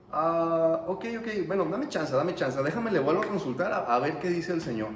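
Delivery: lightly acted stalling reply; Balaam. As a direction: hem and haw, buying time. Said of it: "¿Y qué dice Balaam cuando".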